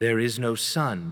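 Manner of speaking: deep, slow, unhurried and deliberate. The witch repeats her words to the four, in a softer and deeper voice. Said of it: "in a softer and deeper voice".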